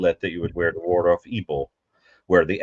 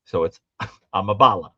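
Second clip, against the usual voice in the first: backwards speech. Shown as a demonstration. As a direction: read the word backwards, letter by letter. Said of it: "it's A M A".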